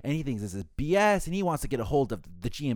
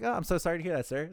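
customer-service sympathy; 6 semitones higher than usual. Retold or imitated. Agent placating angry guest, retold.

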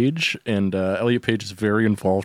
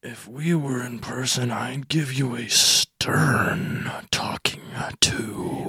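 exasperated; slower than usual. Acted. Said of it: "Just exasperated".

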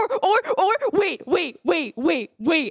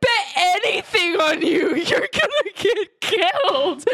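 taunting; 8 semitones higher than usual. Acted. Player taunts the Buster Bros.

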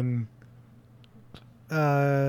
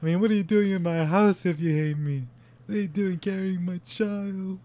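raised pitch, imitating a crying man; mock tearful pleading; 5 semitones higher than usual. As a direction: plead like a husband breaking down, lightly acted. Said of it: "And he starts crying".

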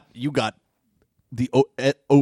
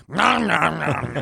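mock eating noises; slower than usual. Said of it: "you can hear her going".

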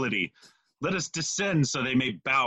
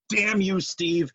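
angry shout; 7 semitones higher, slower than usual. Pretend. Cursing the hated Steve.

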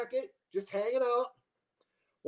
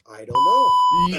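playing dumb; 4 semitones higher, 9 dB louder, much slower than usual. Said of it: "I'm like".

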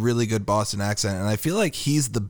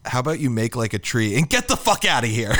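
movie bar regular with a touch of Boston; lightly imitated Boston accent on a movie line; slight Boston accent. Quoting the old guy in the bar, slight Boston accent. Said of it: "got a little bit of Boston to it".

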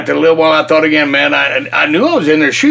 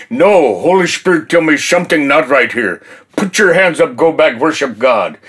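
imitating an old Eskimo lady's village accent; heavy village accent. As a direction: lightly mimic a heavy Alaskan village accent. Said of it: "she had that heavy village accent".

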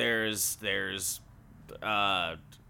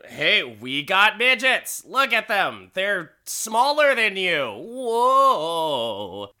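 loud, high hawker's cry; gawking sideshow sales pitch; carnival barker; 7 semitones higher, 6 dB louder, slower than usual. Acted. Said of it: "you hear the barker doing the thing".

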